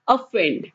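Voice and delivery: ऑफेंड said as "uh-FEND", stress on second syllable; teacher modelling ऑफेंड clearly; model pronunciation. Shown as a demonstration. Teacher to students, modelling the word. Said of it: "आज का जो पहला word है".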